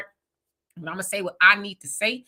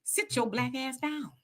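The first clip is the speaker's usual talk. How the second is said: "sit your black ass down" slowed and much softer, each word pressed; slow stern warning; 9 dB quieter than usual. Retold or imitated. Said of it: "they be like".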